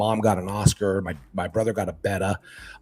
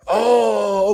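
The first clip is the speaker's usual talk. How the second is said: retold realization; 10 semitones higher, 6 dB louder than usual. Retells kids' reaction to store guys.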